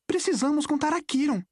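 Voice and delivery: high, urgent voice with a touch of breathlessness; mildly breathless urgency, pitched high; out of breath. A narrator's reading. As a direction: say it as if slightly winded. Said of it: "sem fôlego".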